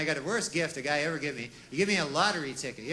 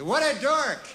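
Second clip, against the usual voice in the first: "What a dork!" blurted higher and louder with a laugh; headline exclamation; 8 semitones higher, 5 dB louder, slower than usual. Shown as a demonstration. Reading the killer's headline aloud, a loud laughing exclamation. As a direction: shout it like a tabloid headline. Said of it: "That was the headline".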